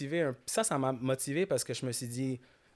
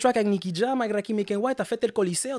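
loud, higher-pitched mock congratulations; imagined hyped praise; 8 semitones higher, 9 dB louder than usual. Friends who should have praised his trip, impressed and hyped. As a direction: reel off the feats like an amazed friend.

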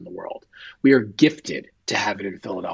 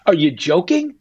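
higher and louder, a rising cry of disbelief; stunned disbelief; 6 semitones higher, 5 dB louder than usual. Retold or imitated. Man hearing the pilot of his son's helicopter died, stunned disbelief. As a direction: it can't be true, push back against it.

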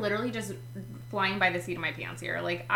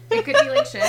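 high, loud laughing burst; squealing through laughter; 11 dB louder, faster than usual. Real, not acted. Laughing at her own random book picks, high squeal.

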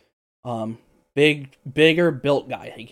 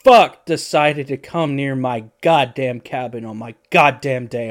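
angry hermit yelling, dragged out slowly; 10 dB louder, slower than usual. Acted. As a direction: roar at the trespasser from the cabin door. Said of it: "and he yells".

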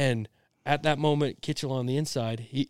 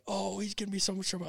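gleeful aside; 8 semitones higher, 9 dB quieter, faster than usual. Retold or imitated. Kid gloating under breath.

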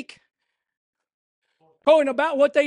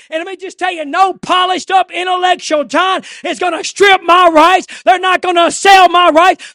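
shouted, rising revival preaching; fiery pulpit cry; preaching at full force; 6 semitones higher, 14 dB louder than usual. Acted. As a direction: preach it hard and loud to the congregation.

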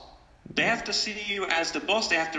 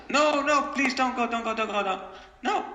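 put-on pleading child; 7 semitones higher than usual. Father voices his child begging him not to go to work, pleading. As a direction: beg like a kid at the door. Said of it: "My kid is screaming".

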